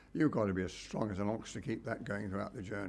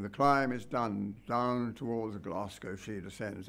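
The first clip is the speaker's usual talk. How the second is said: slow, grand poetic recitation; recited verse; slower than usual. Retold or imitated. Reciting the film's commentary over the driver, slow and grand. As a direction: intone the commentary lines slowly and grandly. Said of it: "lines of ordnance saying".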